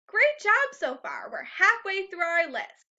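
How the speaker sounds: bright encouraging teacher praise; cheerful praise. Real, not acted.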